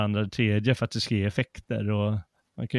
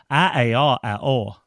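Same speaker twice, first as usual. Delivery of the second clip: reply in broad Värmland dialect; second child answering in Värmland dialect. Retold or imitated. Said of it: "Och det betyder".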